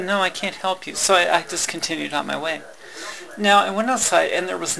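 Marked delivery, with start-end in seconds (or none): 0.0-0.9 quoting the clerk through a laugh. Real, not acted. Laughing as she retells the clerk's refusal. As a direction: laugh while repeating her refusal.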